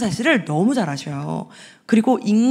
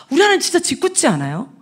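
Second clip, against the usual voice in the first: ordinary delivery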